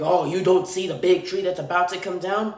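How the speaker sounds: lightly voiced, sarcastic whine; a hint of the annoyed worker, toned down; mock upset. Worker retold as upset at the driver, mild mocking tone. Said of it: "this guy goes upset".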